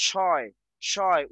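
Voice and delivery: "শয়" stretched to show the oy glide; "শয়" sounded out slowly as a separate syllable; drawn-out syllable demo. Shown as a demonstration. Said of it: "উচ্চারণ অয় আসতেছে".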